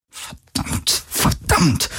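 whispered, under her breath; muttered curse. A narrator's reading. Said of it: "murmelte sie immer wieder". (geflüstert, vor sich hin gemurmelt)

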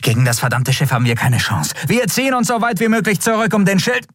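high, rushed retreat order; urgent commander. Acted. Elin orders her crew to retreat, high and urgent. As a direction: push the order out under fire.

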